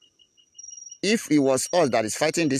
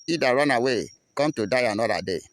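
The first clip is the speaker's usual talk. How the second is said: defiant reply; 2 semitones higher, 3 dB louder than usual. Acted. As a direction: call the challenge back at the enemy. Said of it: "we will also reply to them".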